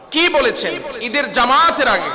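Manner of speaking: high, forceful preaching call; preaching shout. Real, not acted. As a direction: call it out to the congregation. Preacher raises voice to crowd.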